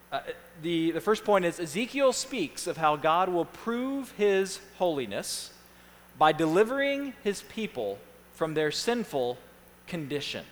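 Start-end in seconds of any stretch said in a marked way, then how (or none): 1.6-10.4 measured reading, falling away at the end; slow dictation. Real, not acted. Pastor reads points for the handout, slowly. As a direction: read it out slowly for note-takers. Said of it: "I'm gonna read them slowly".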